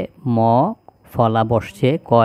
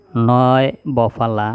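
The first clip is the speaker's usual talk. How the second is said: slow drill; slower than usual. Shown as a demonstration. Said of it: "teacher drills conjunct slowly".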